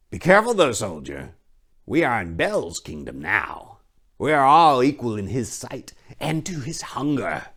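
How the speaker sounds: high, oily priest voice; a leering, smug high priest; sly high priest. Acted. High priest placating the king's men, high and oily.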